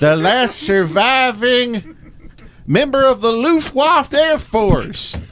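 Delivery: high, slow, drawn-out announcement; parade announcer. Acted. Acting announcer of parade figure.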